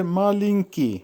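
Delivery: মালিঙ্কি as মা-লিঙ-কি; teacher modelling মালিঙ্কি clearly; careful pronunciation demo. Shown as a demonstration. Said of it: "উচ্চারণ হবে". (মালিঙ্কি-র স্পষ্ট উচ্চারণ)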